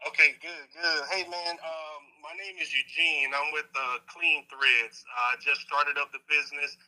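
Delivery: caller heard through speakerphone; tinny call-in voice over a speaker; phone speaker. Real, not acted. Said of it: "I got you on speakerphone".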